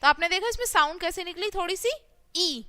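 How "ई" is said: ई said short and quick; a brief teaching ई; short quick vowel. Shown as a demonstration. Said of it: "जल्दी से हमने बोला". (ई को छोटा, जल्दी से बोलें)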